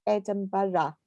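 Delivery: "Edinburgh" with an extra syllable, ED-um-buh-ruh; local pronunciation. Shown as a demonstration. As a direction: give "Edinburgh" four light syllables. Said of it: "people from Edinburgh might say it different".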